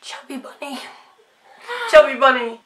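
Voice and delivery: stuffed cheeks; mouth full. Real, not acted. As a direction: talk through marshmallows. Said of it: "talking with things in my mouth".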